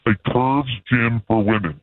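lightly disguised mystery caller; a hint of a shady phone caller.

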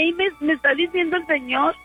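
ordinary talk

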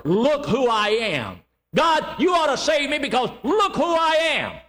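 mocking a proud man who shouts he deserves saving; boastful pride. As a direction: puff up and brag, rising to a shout. Mock boastful sinner before God.

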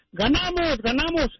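the father cheers the win in his normal voice. Acted. Father bursts in after the game, normal victory cheer. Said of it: "entró su papá gritando".

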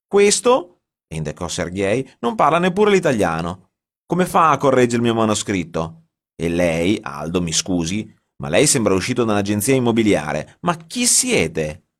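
loud, high indignant tirade; angry rant. A narrator's reading. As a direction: tear into the two strangers. Giorgio rants at intruders.

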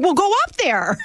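high-pitched mock urging; urging friend, retold. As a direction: egg someone on in a high voice. Retells friend urging them on.

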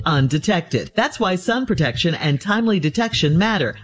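polished, evenly paced health awareness read; scripted public health announcement delivery; sponsor ad read. Acted. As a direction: read it like a podcast sponsor spot. Reads a sponsor health message.

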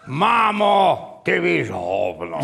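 drawn-out exasperated comeback. Retold or imitated. Retold retort to his mother.

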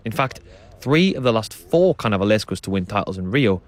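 measured, scripted radio presenter delivery; documentary narration. A narrator's reading. Presenter introducing the samba school story to listeners, documentary narration.

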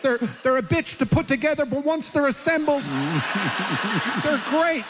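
high, eager rant into the phone; excited. Retold or imitated. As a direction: rattle on, all keyed up. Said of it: "And I'm, like, saying".

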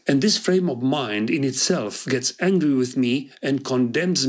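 measured, expressive reading of a ballad; poem recital. Acted. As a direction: read it like a poet at a public reading. Reads his own poems aloud. (recitare expresivă de poezie)

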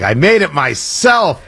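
slow, mock-proud handing over of a treat; proud party host. Host handing kids a blood bag, mock-proud. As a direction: stretch it out as a mock homemade boast. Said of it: "You hand them the blood bag".

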